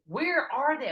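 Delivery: high, loud retold outburst; acted-out frantic question; exasperated searching. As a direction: throw it out loud in mounting bafflement. Retelling frantic search for missing team.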